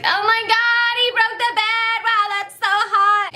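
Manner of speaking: put-on high, squealing teen excitement; giddy fangirl. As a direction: gush like a thrilled fifteen-year-old. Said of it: "our fifteen-year-old glee were like".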